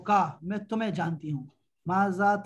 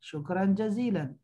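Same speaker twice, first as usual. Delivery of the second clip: "شکرن جزیلن" spoken slowly, word by word; slow model reading. Shown as a demonstration. Teacher slowly models "شکرن جزیلن" for the class. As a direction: drill "شکرن جزیلن" slowly for students to repeat. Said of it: "یہ دوسرا ہوتا ہے جو ہم کہتے ہیں".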